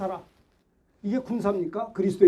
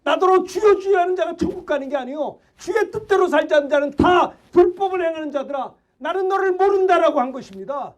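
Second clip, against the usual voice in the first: preaching shout; 3 semitones higher than usual. Real, not acted. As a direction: thunder the warning at the congregation. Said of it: "내가 왜 이렇게 소리를 지르냐면".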